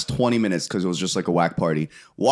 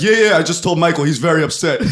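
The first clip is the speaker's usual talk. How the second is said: laughing retelling; 6 semitones higher, 5 dB louder than usual. Retold or imitated. Quoting friend who just quit.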